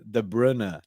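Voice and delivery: De Bruyne slowly as "duh BRUH-nuh"; spelt-out pronunciation. Shown as a demonstration. Reading out the article's guide, careful pronunciation. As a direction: say Bruyne with a short, dull vowel. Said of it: "they put De, then bruh".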